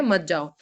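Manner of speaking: "मत जाओ" as one low, falling unit; separate falling phrase. Shown as a demonstration. Teacher explaining not to go, "मत जाओ" joined. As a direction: keep "मत जाओ" together, dropping in pitch. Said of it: "रुको के बाद जिसमें कॉमा है".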